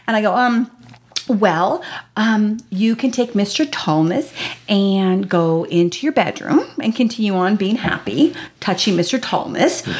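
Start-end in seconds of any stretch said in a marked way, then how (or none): 1.3-9.9 halting, measured parental voice; careful mom. Retold or imitated. Mother improvising choices for her child.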